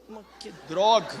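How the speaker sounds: annoyed outburst. Retold or imitated.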